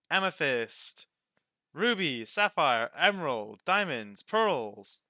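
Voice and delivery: loud, savouring list of gems; eager listing. Acted. Roka lists the gems to customers, loud and eager. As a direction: count them off like treats.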